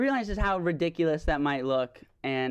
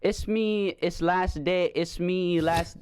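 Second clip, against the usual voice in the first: lightly put-on Spanish accent; broken English in a mild Spanish accent; 3 semitones higher, slower than usual. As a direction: imitate a bad Spanish accent. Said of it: "I just start speaking in a Spanish accent".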